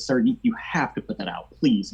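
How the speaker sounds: high, whispery acted begging; desperate plea. Woman finally begging the smoker to stop, desperate.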